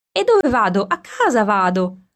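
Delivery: put-on girl shouting her answer back to the shepherd, excited; called back. A narrator's reading. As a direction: toss the answer back, breathless and bright. Girl calls back while running.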